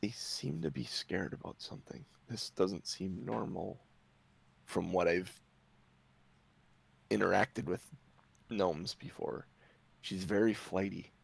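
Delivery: hushed, confiding aside; half-whisper. Acted. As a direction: murmur a wary warning very softly, with pauses. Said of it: "she kinda whispers to you".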